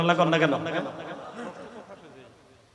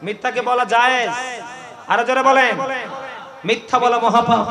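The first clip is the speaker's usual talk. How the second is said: call and response; 3 semitones higher, 6 dB louder than usual. Real, not acted.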